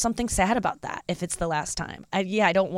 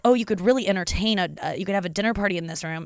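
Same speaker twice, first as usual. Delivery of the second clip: louder, lightly perky imitation; mock enthusiasm; 4 dB louder, faster than usual. Someone touring apartments with her pitches dinner parties, mock enthusiasm. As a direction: imitate someone talking up a room.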